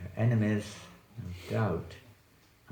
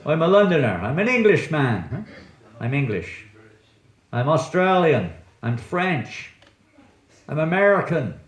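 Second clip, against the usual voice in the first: raised, mock-proud announcement; mock proclamation; 5 semitones higher, 4 dB louder than usual. Teacher mimics people claiming nationalities, mock proclamation. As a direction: declare each nationality like a playful boast.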